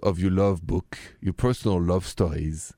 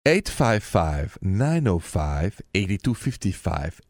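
number read very slowly, digit by digit; slower than usual. Shown as a demonstration. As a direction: spell out the number slowly for callers. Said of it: "repeating the call-in number".

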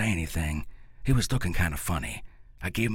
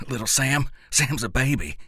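short, higher, curt reply; 6 semitones higher, 3 dB louder than usual. Acted. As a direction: keep it brief and pitched up. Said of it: "I said, short-like".

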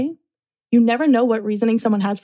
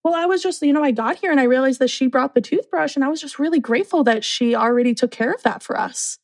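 naive roommate; 4 semitones higher than usual. Retold or imitated. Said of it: "And she was like".

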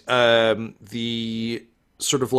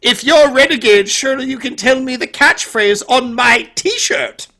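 fake British accent; 13 semitones higher, 9 dB louder than usual. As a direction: declaim pompously in a bad British accent. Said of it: "he doesn't have a British accent".

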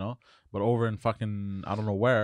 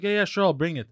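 lazy brush-off; 8 semitones higher, 5 dB louder than usual. Retold or imitated. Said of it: "they were like".

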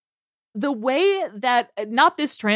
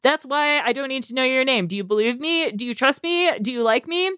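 lovestruck chatbot; 2 semitones higher, faster than usual. Retold or imitated. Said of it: "I think it's funny".

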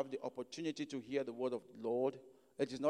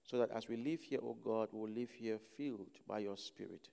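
low, hushed prayer with pauses between phrases; 4 semitones lower, 7 dB quieter than usual. Real, not acted. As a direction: pray softly and low, phrase by phrase. Opening prayer before the sermon.

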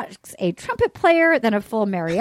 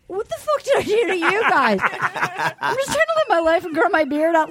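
aggrieved Matt James; 3 semitones higher than usual. Retold or imitated. Voicing Matt James's complaint.

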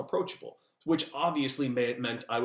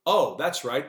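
sarcastic; 3 semitones higher, 5 dB louder, slower than usual. Acted. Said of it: "That character didn't matter either".

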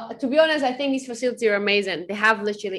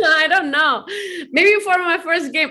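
higher, laughing through emotion; laughing, teary; 7 semitones higher than usual. Real, not acted. Player asked about the jersey, laughing and choked up.

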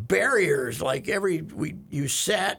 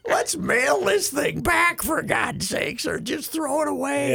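retold exasperation; 8 semitones higher than usual. Retelling his plea while carrying the ruined machine, exasperated. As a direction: plead in mock exasperation, pitch up.

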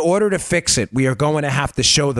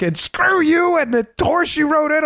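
mock nasty rant; 13 semitones higher than usual. The host imitates the angry emailer cursing him out. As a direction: spit it out like an enraged emailer, slow. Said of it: "really nasty".

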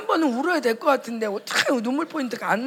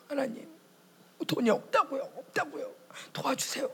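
higher, rising plea 돈이 없다고요; pleading prayer; 4 semitones higher than usual. Retold or imitated. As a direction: beg God for help. Voiced plea for money. (하나님께 높게 애원)

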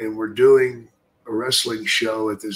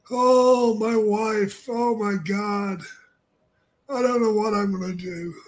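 high, mournful, creepy whine; Paul Bearer impression; 10 semitones higher than usual. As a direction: moan it like a gloomy undertaker. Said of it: "Paul Bearer comes in".

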